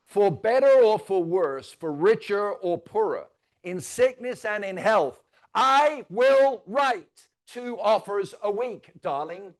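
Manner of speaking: slow, loud, drawn-out wedding vow; solemn mock vows. Trainer reciting mock marriage vows to writing offers, slow and solemn. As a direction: pledge it like a groom at the altar, hammed up.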